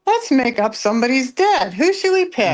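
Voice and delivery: high, lilting mock brainstorm; mock scheming. Imagining hoaxers picking someone to declare dead, mock scheming. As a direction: act out an absurd casual suggestion.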